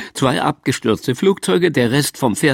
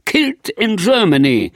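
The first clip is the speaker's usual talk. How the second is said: higher-pitched, lightly shouted punchline; mock shout; 6 semitones higher than usual. A narrator's reading. Plotting how the boy bursts in shouting, a high mock yell. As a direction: call it out high, without full volume. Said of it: "tritt die Tür ein und schreit".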